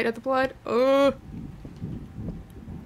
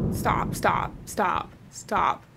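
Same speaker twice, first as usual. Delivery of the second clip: whispered, softer pleading; frightened whisper; 4 semitones lower, 6 dB quieter, much slower than usual. Real, not acted. Terrified player whispering to the ghost to stop. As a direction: plead under breath.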